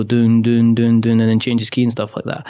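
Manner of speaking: even, sung-out bass notes; steady vocal bass thumps; imitated bass line.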